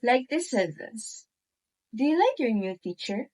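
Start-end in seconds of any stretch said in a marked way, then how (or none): 2.0-3.3 yes-or-no question, pitch going up on "teacher"; quick question rising at the end on "teacher". Shown as a demonstration. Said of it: "The pitch goes up at the end".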